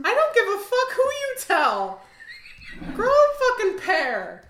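loud fed-up telling off; defiant outburst. Acted. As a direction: yell it like you're fed up. Outburst at the tattletale.

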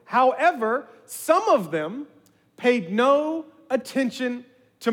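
Moses' command read with slow weight; scripture reading. Acted. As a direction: read it like a prophet's order.

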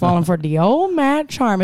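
mimicked crazy Louisiana accent. Host repeats a favorite movie line, crazy Louisiana accent. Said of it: "It's really crazy accent".

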